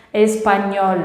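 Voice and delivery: "espanhol" with a clear tongue-tip L at the end; curled final L. Shown as a demonstration. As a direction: model "espanhol" for learners to copy. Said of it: "precisa desse, dessa volta". ("espanhol" com o L final bem pronunciado)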